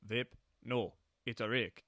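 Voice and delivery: deadpan, slow and flat-faced; mock deadpan Irish lad; dead serious. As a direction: say it totally straight-faced. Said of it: "he says it dead serious".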